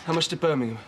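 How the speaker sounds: put-on local accent, easily misheard; regional English accent. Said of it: "It's your flaming accent".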